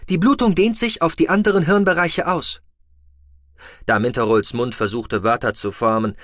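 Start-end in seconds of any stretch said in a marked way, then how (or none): 0.1-2.6 a higher, mechanical machine voice; rasping med box. A narrator's reading. The medical box reporting vital signs in a mechanical rasp. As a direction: sound like a rattling medical device reading out.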